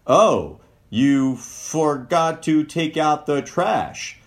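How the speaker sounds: slow, pointed reproach; critical tone. Shown as a demonstration. Partner pointing out the forgotten trash, slow reproach. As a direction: let the blame drip through the words. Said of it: "Just your tone of voice".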